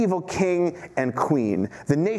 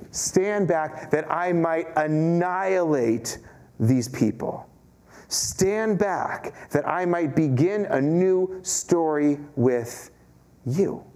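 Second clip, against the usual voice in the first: God's command; much slower than usual. Acted. God's voice, slow and grave.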